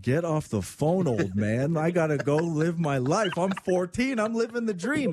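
lightly voiced teenager, pitch climbing toward the end; imitating impatient teen. Host voicing the birthday girl's thoughts, mock-teen impatience. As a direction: play a teen brushing off an old man, lightly. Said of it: "You're like".

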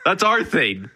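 playfully scolding them, laughing by the end; mock scolding. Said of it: "'Cause it's like".

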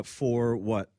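ordinary talk, nothing marked

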